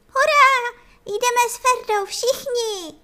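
very high, loud squeaking hurray; tiny cricket squeaking a loud cheer; squeaky cheer. A narrator's reading. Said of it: "zapískl".

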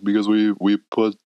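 lightly voiced athlete impression, halting start; half-hearted imitation of a player answering the press; Leon Draisaitl. Player explaining to reporter why they win, lightly imitated. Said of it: "Was that your best Leon impression?".

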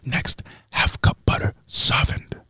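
ASMR whisper. Acted. ASMR whisper recipe reading.

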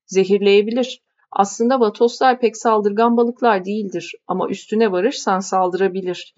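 matter-of-fact local explaining a danger; lightly voiced fisherman. The speaker explaining the stingray to the young lady.

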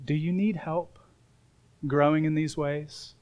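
soft, tender question; gentle offer. Acted. Holy Spirit asking a struggling believer, gentle offer. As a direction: offer help quietly and kindly.

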